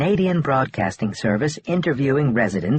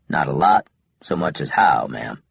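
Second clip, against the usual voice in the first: frustrated; 8 semitones lower than usual. A narrator's reading. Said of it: "clearly frustrated".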